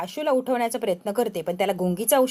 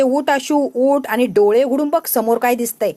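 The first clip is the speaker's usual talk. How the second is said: loud, angry order to get up; wife loudly ordering her husband to wake and look, angry; angry command; 7 dB louder than usual. Acted. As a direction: rouse him sharply, loud and furious. Wife wakes drugged husband angrily.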